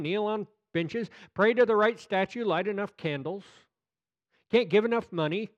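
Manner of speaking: usual speaking voice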